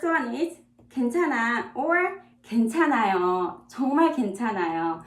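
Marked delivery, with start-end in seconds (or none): 3.7-5.0 rushed emphatic. Shown as a demonstration. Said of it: "It's really okay".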